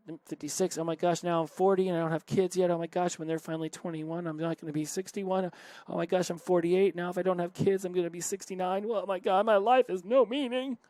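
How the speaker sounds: spiral from worry into a hammed-up wail; mounting mock panic. Spiraling thoughts fan the flames.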